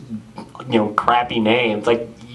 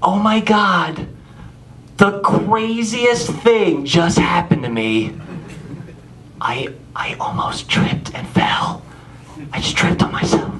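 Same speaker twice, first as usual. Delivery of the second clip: put-on slow, breathy valley-girl gush; girl on the phone; 4 semitones higher, slower than usual. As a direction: overdramatize a tiny stumble to a friend. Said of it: "and she goes".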